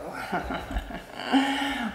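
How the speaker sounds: sultry laugh. Acted.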